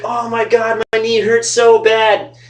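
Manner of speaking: imitating a friend in pain. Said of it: "And he's like".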